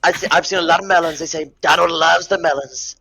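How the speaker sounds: lightly voiced Trump boasting, only a hint of his voice; a tipsy, half-hearted Trump bragging about Anne; Donald Trump impression. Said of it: "That's all I got".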